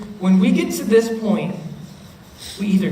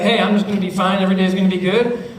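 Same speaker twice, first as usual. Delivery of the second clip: forced cheer; 3 semitones lower, much faster than usual. Retold or imitated. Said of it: "just saying, like".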